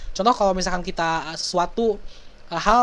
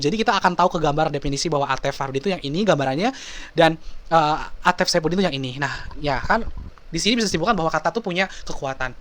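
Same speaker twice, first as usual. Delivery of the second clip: usual speaking voice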